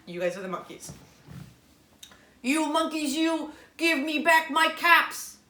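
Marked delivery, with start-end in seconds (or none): 2.4-5.4 peddler demo. Acted. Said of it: "I'm gonna be the man".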